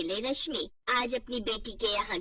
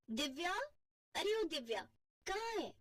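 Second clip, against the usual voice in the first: calling out; 7 semitones higher, 9 dB quieter than usual. Acted. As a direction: summon her from the other room. जेठानी calls out to देवरानी. (दूर से ज़ोर से पुकारना)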